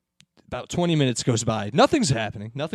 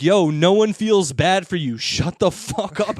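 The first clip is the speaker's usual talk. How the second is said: slow, emphatic retold put-down; mock fed-up rebuke; 4 semitones higher, 4 dB louder, slower than usual. Passenger to complaining woman, mock fed-up. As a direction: lean on each word, louder and slower.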